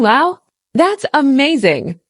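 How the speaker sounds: slow, lively amazed reading; expressive wow. Shown as a demonstration. Teacher showing learners an expressive reaction. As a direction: sound truly impressed. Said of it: "adds a lot more expression than just saying".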